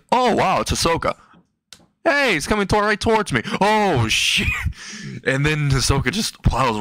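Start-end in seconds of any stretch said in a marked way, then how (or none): 0.1-4.5 high-pitched startled reaction building to panic; high, comic panic; mock alarm. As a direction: play dawning alarm as he comes at you. Sees Hisoka coming right at him.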